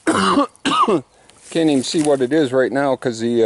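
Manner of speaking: coughing, breathless restart; out of breath. Real, not acted. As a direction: gasp it out after a cough. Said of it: "I'm out of breath".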